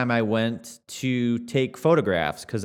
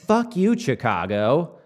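angry outburst; 3 semitones higher, slower than usual. Retold or imitated. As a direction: fling it out like a pent-up retort. Outburst at dispatcher hanging up.

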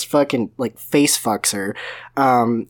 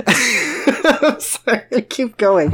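laughing apology; 9 semitones higher, much slower than usual. Real, not acted. Laughing fit.

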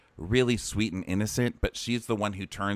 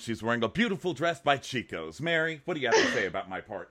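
put-on always-on party girl; 6 semitones higher than usual. Imitating a girl hosting her birthday party, mock gushing. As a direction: gush and host your own party, hammed up. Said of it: "she's that girl who's like".

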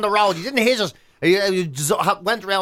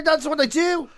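exasperated retort; 9 semitones higher than usual. Retold or imitated.

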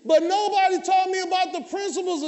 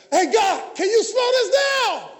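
pleading prayer; 4 semitones higher, slower than usual. Retold or imitated. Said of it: "you're gonna be like".

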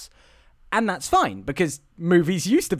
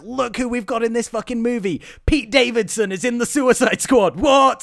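higher, mock-excited boast; mock hype; 4 semitones higher, 4 dB louder than usual. Imitating studios touting a surprise cast, mock excitement. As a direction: imitate a studio showing off its casting. Mimics studios hyping stunt casting.

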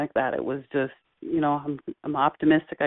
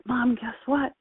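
higher, eager little-boy voice, lightly imitated; excited child; 6 semitones higher, 3 dB quieter than usual. Son telling his mother his news, with childlike excitement. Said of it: "saying it with the excitement".

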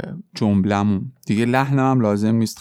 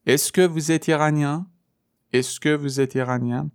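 slow demo question; 4 semitones higher, slower than usual. Shown as a demonstration. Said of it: "جملهٔ پرسشی با اسکو".

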